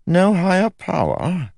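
very high, astonished king; taken aback. A narrator's reading. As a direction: ask it as a shocked king. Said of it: "George seemed taken aback".

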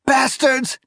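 high furious cry; angry cry. A narrator's reading. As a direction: hurl the curse at them. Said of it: "she cried".

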